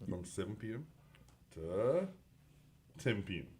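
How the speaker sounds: hushed dramatic low announcement; dramatic announcer. Pretend. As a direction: drop into a hushed dramatic tease. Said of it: "that little bit of drama there".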